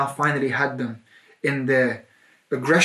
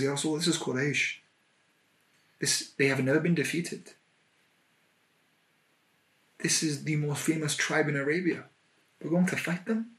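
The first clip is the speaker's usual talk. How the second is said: hushed doubt; 6 dB quieter than usual. Acted. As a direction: voice the worried doubt under your breath. Abu Bakr doubts fighting Quraysh.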